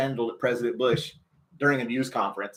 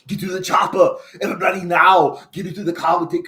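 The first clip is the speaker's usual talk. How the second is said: louder Schwarzenegger boom on chopper; Arnold Schwarzenegger impression; 3 semitones higher, 4 dB louder than usual. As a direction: bark it like Arnold in an action film. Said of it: "my Arnold Schwarzenegger impersonation".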